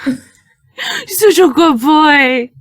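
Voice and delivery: slow, sing-song praise for a dog; baby talk to a dog. Acted. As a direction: coo it slowly like praising a puppy. Player praises the dog slowly.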